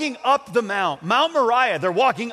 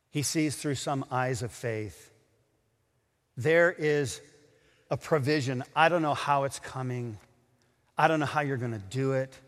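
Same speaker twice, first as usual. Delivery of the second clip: low, softened sermon voice; hushed solemn preaching; 5 semitones lower, 3 dB quieter than usual. Real, not acted. Preacher explains what Abraham saw by faith, hushed and solemn. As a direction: preach it quietly, pitched down.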